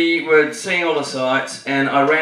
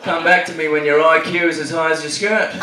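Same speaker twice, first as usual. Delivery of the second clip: Mel Gibson quote. Retold or imitated. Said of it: "my best Mel Gibson quote".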